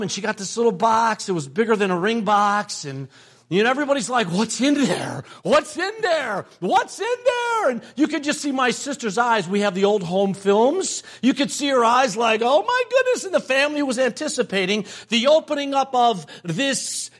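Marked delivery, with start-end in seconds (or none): 4.3-7.7 rising, ever more eager questions; eager family asking. Retold or imitated. Family crowding the sister, rising eager questions. 12.4-13.2 high, breathless oh my goodness; amazed gasp. Retold or imitated. Sister opening her engagement gift, high amazed gasp.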